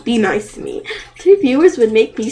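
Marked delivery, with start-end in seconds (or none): 0.0-0.8 be nice to me said softer and falling, politely; respectful plea. Shown as a demonstration. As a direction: ask it gently and respectfully.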